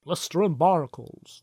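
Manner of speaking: lightly put-on regional sailor accent; Captain Haddock impression. Co-host imitating the Tintin captain's swearing, put-on captain voice. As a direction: try out a salty captain's curse. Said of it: "Doesn't say it like that, does he?".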